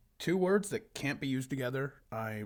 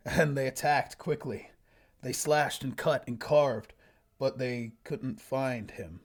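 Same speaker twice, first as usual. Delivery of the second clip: story narration. Acted. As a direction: read it out like a solemn fantasy tale. Reads own old story aloud.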